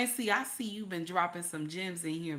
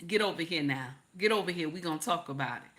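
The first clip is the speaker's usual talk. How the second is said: lower, firm command; husband ordering his wife to come over, lower and firm; firm husband call; 3 semitones lower, faster than usual. Retold or imitated. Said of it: "he be like".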